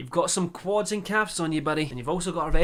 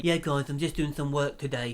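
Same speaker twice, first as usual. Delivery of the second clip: Paul Breach impression. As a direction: mumble it like him, sloppy consonants. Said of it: "That's my Paul Breach impression".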